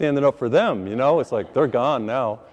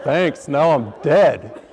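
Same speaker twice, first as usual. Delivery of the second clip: laughing slowly; 4 dB louder, much slower than usual. Retold or imitated. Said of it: "said slowly, laughing".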